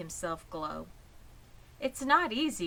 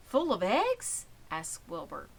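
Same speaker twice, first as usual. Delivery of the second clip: put-on puzzled young pig. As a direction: wonder it out innocently like a little pig. Wilbur's naive guess.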